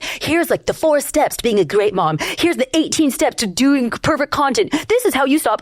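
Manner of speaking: a hint of a chirpy self-help influencer; mock influencer voice. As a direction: lampoon those perky TikTok tips. Mocking influencer advice posts.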